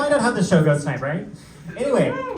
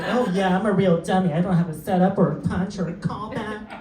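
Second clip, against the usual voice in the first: lightly higher, laughing self-mockery; mock dumb self; 5 semitones higher than usual. Comic mocking himself bombing, lightly higher and laughing. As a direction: play the clueless comic, giggling. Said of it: "And I was like".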